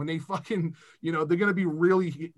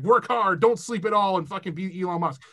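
motivational-page parody; 2 semitones higher, 4 dB louder than usual. Retold or imitated. Mocking Instagram CEO pages, motivational-page parody. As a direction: parody a pushy motivational post, punched at first. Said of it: "sound like one of those".

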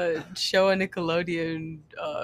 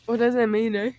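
louder, lightly put-on Canadian accent; mock Canadian; 3 semitones higher, 5 dB louder than usual. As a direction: try Canadian with some volume. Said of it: "where are we going, Canadian".

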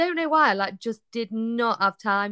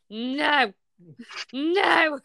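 drawn-out, raised mock wail of refusal; retold horrified no; 4 semitones higher than usual. Wife re-enacts husband hearing the baby is coming, mock-panicked. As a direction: exclaim it like a panicked partner.

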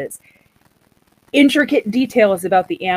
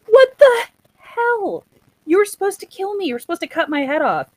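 high, crying shout that gets faster; outraged cry; 11 semitones higher than usual. Retold or imitated. Gawain yells at the Green Knight, outraged crying shout. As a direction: wail it in disbelief, then rattle off the complaint.

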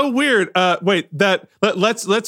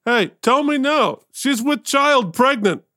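insistent demand; 4 semitones higher than usual. Acted. Jimmy pressing the receptionist about Eleanor, insistent.

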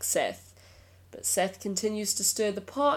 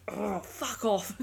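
laughing dismissal; 3 semitones higher, slower than usual. Real, not acted. Annoyed reaction to attention-seeking post.

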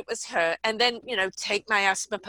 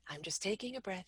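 soft whispered self-talk; 2 semitones lower, 14 dB quieter than usual. Shown as a demonstration. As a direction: whisper it calmly to yourself. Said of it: "even the way you're saying it".

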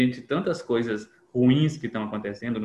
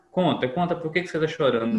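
pushy parent, a little higher; a touch of an impatient parent; 5 semitones higher than usual. Retold or imitated. Parent imitating himself pressing a crying child, a little higher. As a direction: prod the crying child to talk. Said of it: "a gente tá".

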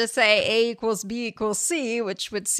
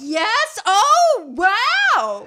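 high, loud mock amazement; delighted reaction; 12 semitones higher, 6 dB louder, much slower than usual. Retelling how happy they were, mock delighted. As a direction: imitate wide-eyed delight, drawn out and high.

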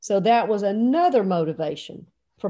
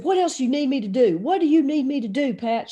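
quick, slightly raised, frantic questions; mock frantic pleading; 3 semitones higher than usual. Panicking coach asks wife in labor, frantic. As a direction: fire off the questions, rattled. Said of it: "calm down".

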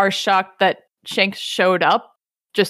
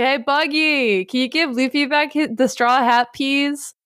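sing-song, higher-pitched casual request; Shanks; 5 semitones higher than usual. Retold or imitated. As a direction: ask a favour in a lightly put-on high voice. Shanks sweetly asks Buggy a favor.

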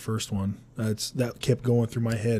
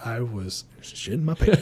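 laughing; slower than usual. Retold or imitated. Laughing admission.

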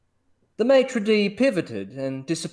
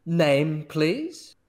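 snooty waiter; 3 semitones higher than usual. Acted. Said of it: "said the maitre d'".

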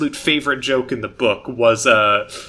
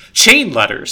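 sermon voice; 5 semitones higher, 4 dB louder than usual. Acted. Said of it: "I hear a thousand sermons".

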